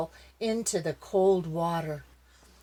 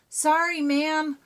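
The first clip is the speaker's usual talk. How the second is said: apologetic; 10 semitones higher, 5 dB louder than usual. Acted. Dog apologizing to Eagle.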